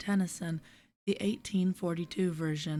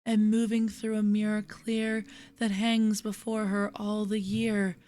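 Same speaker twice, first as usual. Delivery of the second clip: measured, lilting verse with pauses at line ends. Acted. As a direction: read the poem gently, letting refrains fall away. Reads a poem aloud.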